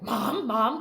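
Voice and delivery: mild retold yell. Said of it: "I start yelling".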